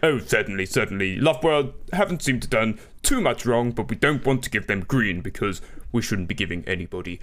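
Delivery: lightly put-on bumbling British Prime Minister; Boris Johnson. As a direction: play a hesitant political leader in interview. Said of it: "do your fucking Boris Johnson accent".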